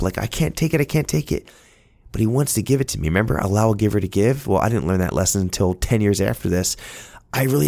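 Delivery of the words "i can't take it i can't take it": higher, pleading refusal, a touch emotional; protesting the gift. Retold or imitated. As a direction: refuse it, overwhelmed but proud. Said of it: "Pride was kinda welling up".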